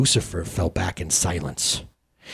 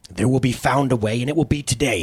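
hissed; 3 semitones higher than usual. Acted. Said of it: "hissed Sin".

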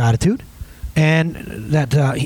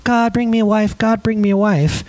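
insistent prayer; 6 semitones higher than usual. Retold or imitated. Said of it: "my prayers went from".

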